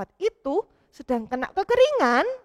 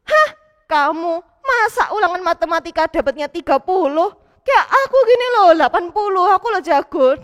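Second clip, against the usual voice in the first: bragging classmate; 2 semitones higher, 5 dB louder than usual. Acted. Classmate boasting about a score of eighty, smug. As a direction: rub your better grade in their face. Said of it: "tapi malah".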